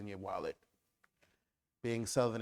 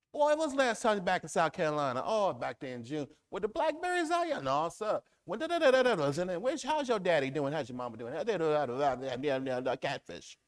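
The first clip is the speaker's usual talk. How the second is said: Southern chatter; 6 semitones higher, 7 dB louder, faster than usual. Retold or imitated. Acted Southern catch-up chat.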